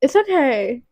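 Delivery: soft, soothing reassurance; gently calm a friend down; comforting. Real, not acted. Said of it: "I'm just gonna comfort you".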